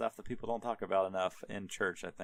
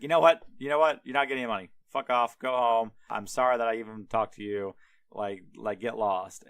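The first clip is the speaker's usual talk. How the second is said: angry dismissal; 4 dB louder than usual. Retold or imitated. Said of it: "He's like".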